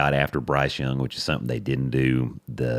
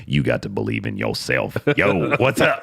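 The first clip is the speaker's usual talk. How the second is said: put-on Stetson Bennett, drunk; 3 semitones lower than usual. Drunk quarterback on morning TV greeting everyone, mock-drunk. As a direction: start low, then burst out tipsily. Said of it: "You're drunk".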